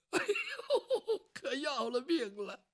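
servant's rueful laugh over the lost money; bitter laughing groan. Acted. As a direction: laugh at your own ruin. Servant in despair.

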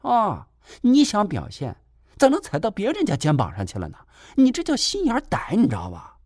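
high-pitched, needling caretaker voice; a nosy caretaker scolding him sarcastically; shrill, snide lecture from the caretaker; snide nurse. Acted.

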